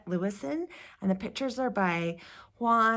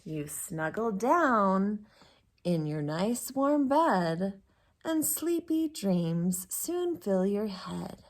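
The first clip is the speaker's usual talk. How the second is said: soothing bedtime voice; slower than usual. Acted. Bedtime story read to kids.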